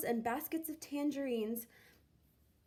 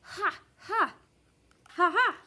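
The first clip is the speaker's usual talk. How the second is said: loud, high triumphant ha-ha; big gloating dog laugh; gleeful laugh; 6 semitones higher, 6 dB louder than usual. A narrator's reading. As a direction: laugh out loud at the pie-covered rival. Max laughing at Ivan's fate.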